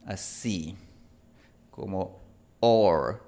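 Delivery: or held long with the American R; English or vowel. Shown as a demonstration. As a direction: show the or sound slowly. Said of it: "hay una vocal así". (la vocal or del inglés)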